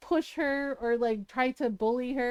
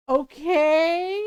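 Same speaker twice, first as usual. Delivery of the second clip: drawn-out, louder, rising okay; wary okay; 6 dB louder than usual. Retold or imitated. Mom hearing about Trapped Princess, warily going along. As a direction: stretch it out with doubt.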